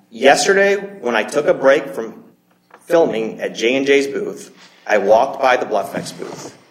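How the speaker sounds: deliberate, slowed read-aloud of a quote. Real, not acted. Lawyer reading an email into the court record, slowly. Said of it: "I'm gonna read this slowly".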